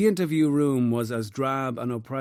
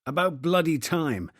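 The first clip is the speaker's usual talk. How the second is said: indignant outburst, higher; burst out; 5 semitones higher, 3 dB louder than usual. Acted. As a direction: blurt it out angrily. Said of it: "O'Shaughnessy burst out".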